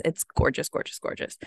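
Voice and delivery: whispered gushing. Real, not acted. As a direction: whisper it in awe. Gushing over the bookstore tour.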